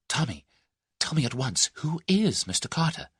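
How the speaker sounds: put-on young Tuppence urging her friend to tell; lightly voiced eager young woman. A narrator's reading. Young Tuppence demanding a name from Tommy, eager.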